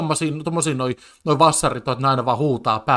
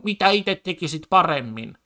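lightly voiced smug politician, a touch higher; mocking quote again; 4 semitones higher than usual. Streamer repeating the debaters' catchphrase, mildly mocking. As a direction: toss it off as a smug debate jab. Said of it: "toi koko pointti tuolla on".

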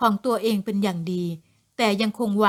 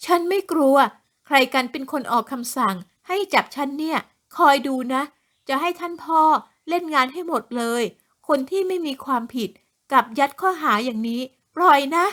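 higher, haughty defiant yelling; defiant threats; 4 semitones higher than usual. Acted. Arrested woman threatening officers with her father, defiant yell. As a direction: threaten them with your father's power.

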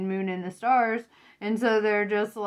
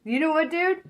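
louder, higher calling them out; confrontational callout; 6 semitones higher, 5 dB louder than usual. Pretend. Querent confronting the user who exploits her, defiant. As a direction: say it straight to their face, defiant. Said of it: "you're like".

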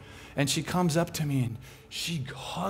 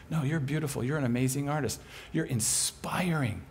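tender reassuring voice; 3 semitones lower, 5 dB quieter than usual. Retold or imitated. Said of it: "the truth of that voice".

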